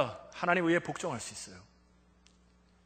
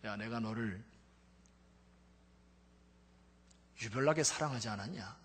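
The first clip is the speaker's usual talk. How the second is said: still small voice; 5 semitones lower, 6 dB quieter than usual. Retold or imitated. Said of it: "세미한 음성으로 말씀하셨대요".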